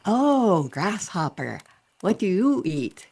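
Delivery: high, swooping "Oh" with open vowels; big-mouthed cartoon curiosity; wide-mouthed frog. Frog quizzing a grasshopper, loud and wide-mouthed. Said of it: "trying to open my mouth really wide".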